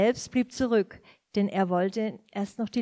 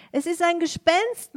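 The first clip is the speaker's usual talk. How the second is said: frightened cry; 8 semitones higher than usual. A narrator's reading. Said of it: "schrien voller Entsetzen".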